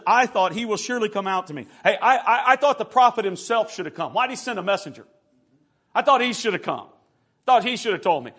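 indignant preacher's re-enactment; wrathful indignation. Acted. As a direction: protest like someone slighted. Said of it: "watch what he says in wrath".

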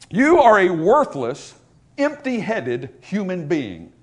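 slow, deliberate contempt, forceful then dropping; acted hateful insult. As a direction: weigh out each scornful word slowly. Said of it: "of all-out hatred".

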